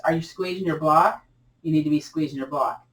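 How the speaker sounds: ordinary delivery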